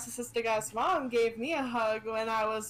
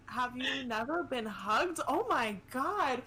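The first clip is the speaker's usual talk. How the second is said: incredulous; 5 semitones higher than usual. Real, not acted. Player reacting to a man never hugged, high incredulous.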